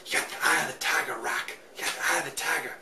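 a light hint of Apollo coaching, quick; Apollo impression. Apollo urging Rocky on, lightly voiced coach. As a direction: toss off a barely changed Apollo pep talk. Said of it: "That's my Apollo impression".

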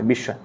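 বিস্ময় with a doubled "sh" and silent m; palatal sh. Shown as a demonstration. Teacher repeats the example to students, বিস্ময় softly with sh. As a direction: say বিস্ময় softly as "bish-shoy". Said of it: "তালব্য স হয়".

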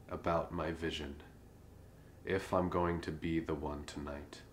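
measured poetry reading with long pauses between lines; poem recitation. Acted. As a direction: recite verse in a song's cadence, lines falling away softly. Recites own poem to song cadence.

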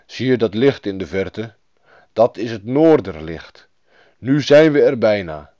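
lightly voiced reindeer guide; emphatic reindeer character; talking reindeer. A narrator's reading. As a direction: point the way as a storybook animal. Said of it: "zei het rendier".

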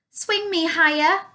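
put-on high, pleading child voice; eager high-pitched plea; begging. A narrator's reading. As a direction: beg to be pushed, pitched well up. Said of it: "begged Flora".

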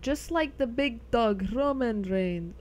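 lightly put-on foreign accent, drawn out at the end; a hint of a video game character's accent; Roman's accent. Streamer imitating a game character for viewers, lightly accented. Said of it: "tried to do that with an accent".

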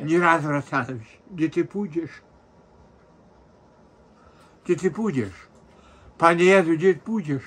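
sobbing lament; crying. Real, not acted. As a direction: weep out the questions. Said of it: "Krzysiek, bez płaczu mi".

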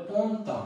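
পন্তা said as two clear syllables, nasal first vowel; correct French sound. Shown as a demonstration. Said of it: "কি উচ্চারণ হয়েছে?". (পন্তা ফরাসি উচ্চারণে)

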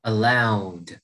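"Allowed" slowly, closing on a released D; final D sound. Shown as a demonstration. Teacher showing âm D, clearly released ending on "Allowed". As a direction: land the D at the end of "Allowed". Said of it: "âm D".

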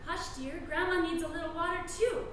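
gently quiet a pretend child; soothing hush. Mother hushing thirsty daughter in the game, soothing.

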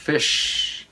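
Fish with the sh of shop, held long; final SH sounded. Shown as a demonstration. Teacher likens Fish to shop for learners, long final sh. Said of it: "Like a shop".

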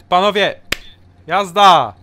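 shouting. Real, not acted. Calling workers to start.

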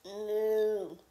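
a low playful cow moo. Pretend. Child imitating a cow for mom, playful moo. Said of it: "A cow".

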